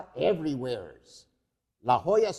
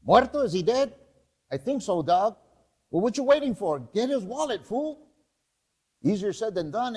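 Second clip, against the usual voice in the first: higher, casual street thug banter; lightly voiced cholos; 4 semitones higher than usual. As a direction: squabble like young vatos. Scavengers find the fat man.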